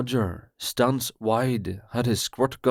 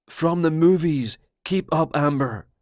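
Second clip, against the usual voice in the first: higher, louder, fast conspiracy rant; paranoid Roger; 5 semitones higher, 3 dB louder than usual. Acted. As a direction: blurt it out like a betrayed friend.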